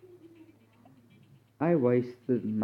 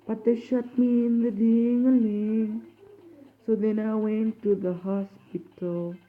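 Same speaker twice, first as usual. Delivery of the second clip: alien voice; 7 semitones higher than usual. Pretend. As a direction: sing it in a squeaky alien voice. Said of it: "That's my alien voice".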